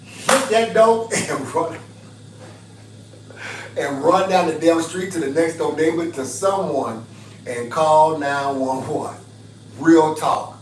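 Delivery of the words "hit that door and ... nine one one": urgent escape. Real, not acted. Urging women to flee.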